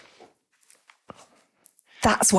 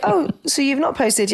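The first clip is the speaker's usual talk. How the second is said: higher, slow mock scolding; 7 semitones higher, slower than usual. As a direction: tease like a nagging app. LinkedIn scolding her.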